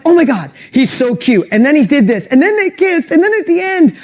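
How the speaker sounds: gushing excitement. Shown as a demonstration. Fan telling friends about a movie, gushing with excitement. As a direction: rave like you can't contain it. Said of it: "You're animated, you're excited".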